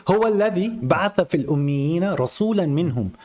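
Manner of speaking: fast, chanted Quranic recitation. Shown as a demonstration. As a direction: recite the verse in a rapid chant. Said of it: "I'm reading the Quran".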